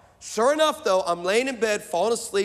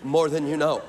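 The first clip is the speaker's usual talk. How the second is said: knowing low reply; 5 semitones lower than usual. Retold or imitated. Pastor answers Antoine's text, low and knowing. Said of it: "I'm like".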